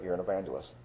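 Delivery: soft, hushed inner voice of God; a soft, still whisper of a calling; still small voice. Retold or imitated. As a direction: say it quietly, like a voice heard within. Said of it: "that still small voice in my spirit".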